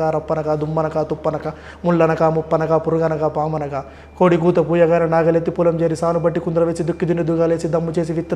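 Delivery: rattling off a long hero dialogue in one breath; movie dialogue recital. Shown as a demonstration. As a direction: recite it like a film punch dialogue, nonstop. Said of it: "ఒక dialogue చెప్తారా మాకు?". (సినిమా dialogue ఊపిరి తీసుకోకుండా చెప్పడం)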